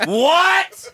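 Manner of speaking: high, loud startled question; mock disbelief, laughing; shocked. Shocked reaction to the prayer.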